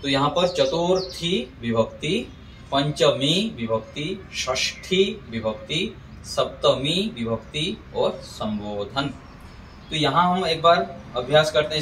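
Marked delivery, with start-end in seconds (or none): 0.5-9.1 चतुर्थी, पंचमी, षष्ठी, सप्तमी with long final "ee"; demonstrated pronunciation. Shown as a demonstration. Teacher models case names for students, चतुर्थी, पंचमी, षष्ठी, सप्तमी with stretched endings. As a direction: hold the last vowel of चतुर्थी, पंचमी, षष्ठी, सप्तमी, and the "bo" of संबोधन. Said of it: "इसको भी ध्यान देंगे कैसे उच्चारण करना है".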